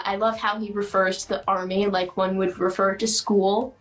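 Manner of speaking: lightly voiced Buster, rising on Army; a hint of a proud man-child showing off awards; Buster Bluth quote. Quoting a sitcom character to friends, lightly voiced. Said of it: "quoting Buster Bluth from Arrested Development".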